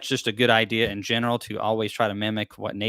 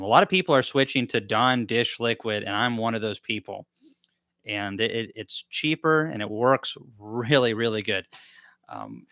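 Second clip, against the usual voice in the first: talking while chewing gum; words around a wad of gum. Real, not acted. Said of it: "Let me get rid of this gum".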